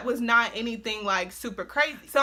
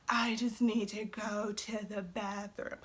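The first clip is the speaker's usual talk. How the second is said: put-on drunk mumble; 3 semitones lower, 11 dB quieter, slower than usual. Drunk excuse to leave.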